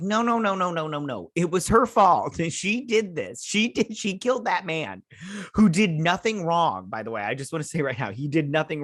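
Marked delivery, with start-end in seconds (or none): 0.0-6.9 high, pressed run of no's, slowing on "She did this"; mock-insist it's her fault; insistent protest. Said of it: "And I was like".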